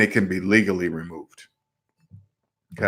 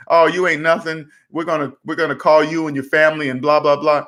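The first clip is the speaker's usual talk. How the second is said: lightly mocked debt collector, pitched higher; mock threatening; 5 semitones higher than usual. Collection agent hassling a debtor, mock threatening. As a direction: imitate a collector's empty threats, raised pitch.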